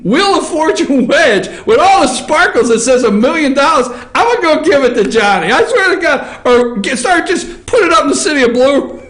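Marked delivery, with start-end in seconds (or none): 4.1-9.0 laughing. Real, not acted. Laughs at million-dollar claim.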